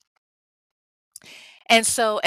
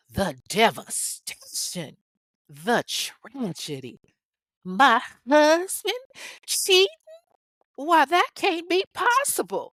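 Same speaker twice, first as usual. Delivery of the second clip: melodramatic shocked wife, drawn out, climbing very high; hammed-up soap-opera heartbreak, slow then high-pitched; mock-devastated wife; 7 semitones higher than usual. Wife hearing of her husband's cheating, mock-devastated. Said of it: "Ain't no way in fuck Sheree talked like that".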